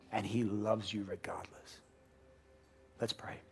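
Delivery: soft unvoiced whisper; whispered reassurance. Real, not acted. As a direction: breathe it like a secret. Whispered assurance.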